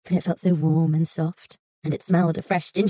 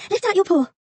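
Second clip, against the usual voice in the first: put-on high girl's voice, a little breathless with effort; girl straining; 14 semitones higher, 4 dB louder than usual. A narrator's reading. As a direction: urge it out while heaving the trap. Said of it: "panting with the effort".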